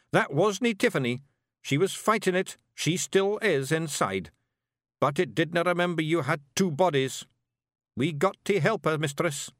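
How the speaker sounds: high Scots voice pleading her case; earnest little Scottish warrior; Scottish Feegle, urgent. A narrator's reading.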